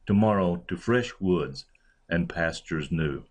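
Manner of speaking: "fresh" stressed, "to" left unstressed. Shown as a demonstration. Lecturer showing students how he read Milton's line, stress on "fresh". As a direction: put the line's stress on "fresh". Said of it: "but instead I stressed fresh".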